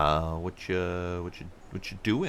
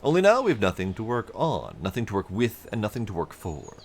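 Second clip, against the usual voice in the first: a hint of a welcoming foreman; friendly supervisor; 4 semitones higher than usual. Player voicing a supervisor greeting a traveler, hearty. NPC dialogue continues.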